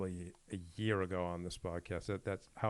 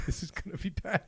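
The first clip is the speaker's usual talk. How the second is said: higher pitch, words breaking into laughter; laughing dread; 11 semitones higher than usual. Retold or imitated. Retelling his boxing mistake, laughing at himself. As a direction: laugh through the retold dread.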